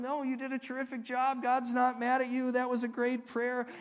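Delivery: mildly soothing dad; retold reassurance. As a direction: reassure an upset child, in a storyteller's voice. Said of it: "I held him and I assured him".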